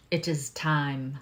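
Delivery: low, slow, lightly voiced wise mystic; Rafiki. Tarot reader announcing Scorpio's turn in a low imitation of Rafiki. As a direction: lightly imitate a sage, drawing the words out low. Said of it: "Why did I hear Rafiki's voice?".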